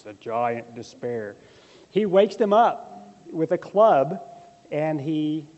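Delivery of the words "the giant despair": slow, slightly lower menacing announcement; attempted deep voice. Shown as a demonstration. Preacher trying a deep giant voice for the congregation. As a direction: try to sound like a giant, drawn out. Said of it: "I wish I could say that in a deep voice".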